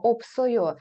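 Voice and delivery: «опсойо» said op-so-yo, the s starting the next syllable; teacher shows «опсойо» split op-so-yo; s moved to next syllable. Shown as a demonstration. Teacher shows students s carried into next syllable. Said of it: "вона ніби переходить на наступний склад".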